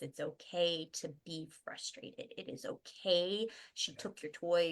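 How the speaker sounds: put-on slow, patient reassurance to a child; reassuring parent. Parent telling the kids it's okay to be frustrated, reassuring. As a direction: gently spell it out for a child.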